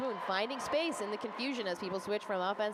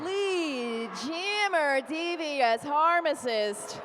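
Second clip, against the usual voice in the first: excited call; 6 semitones higher, 6 dB louder, much slower than usual. Real, not acted. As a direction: gasp then a loud high call. Live call of a big play.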